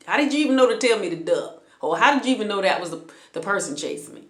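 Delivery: breathless fast wondering; rapid excited questions. Retold or imitated. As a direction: rush the questions in disbelief.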